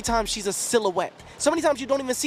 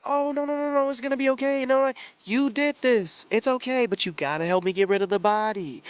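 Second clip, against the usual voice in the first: a hint of sweet, sadistic coaxing; lightly voiced coaxing, soothing on the surface; 2 semitones higher than usual. Character soothing her partner after a killing, lightly mocked sadistic coaxing. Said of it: "that sadistic coaxing".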